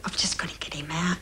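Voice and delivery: quick panicked whisper to herself; retelling a frantic private thought in a rushed whisper; urgent whispered thought. Retold or imitated. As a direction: hurry it out under your breath, alarmed. Panicked inner thought, retold.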